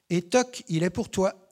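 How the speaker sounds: exclamation soulagée, plus haute et plus forte; lâcher ça avec soulagement; cri soulagé. Acted. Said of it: "s'écria Damien soulagé". (Damien se débarrasse de Fabien, cri de soulagement)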